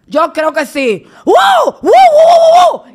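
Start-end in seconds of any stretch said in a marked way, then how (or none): 1.2-2.9 very high, slow, loud wows; bay like the angry preacher; mock barking shout. Imitating the preacher's barking rant, very high and loud. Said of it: "Y esa ladradera".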